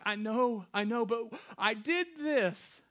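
loud, high guilty outcry; anguished protest. Acted. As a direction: protest forgiveness at a near shout.

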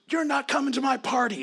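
put-on high and loud, a pouting child's threat; shrill-pitched mock childish snub; mad little girl. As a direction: huff it like an angry five-year-old. Five-year-old storms off mad.

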